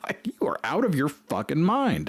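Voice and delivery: hushed whisper of disbelief. Retold or imitated. Reacting to the swastika plan, whispered disbelief. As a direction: whisper it like you can't believe it. Incredulous aside about the swastika.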